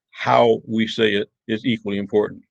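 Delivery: "how" leaned on, rest falling away; stress on HOW. Shown as a demonstration. Teacher contrasting wording with delivery, stress on "how". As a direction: hit "how" to set up the contrast. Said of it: "give emphasis to certain words".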